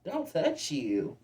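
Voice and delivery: slow, stunned disbelief; incredulous. Retold or imitated. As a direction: drag it out in shock. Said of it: "I'm like".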